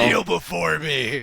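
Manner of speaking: booming echoing villain monologue. Pretend. Mock royal command.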